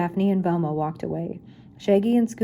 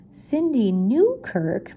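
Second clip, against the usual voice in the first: slow, higher shocked exclamation; surprised exclamation; 4 semitones higher, much slower than usual. Acted. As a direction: gasp out the name. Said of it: "Mister Shaky exclaimed".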